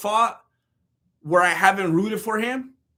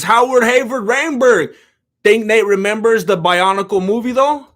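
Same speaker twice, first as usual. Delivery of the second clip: loud chat readout; 5 dB louder than usual. Real, not acted. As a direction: announce the viewer's name and question loud. Reading a viewer's chat question.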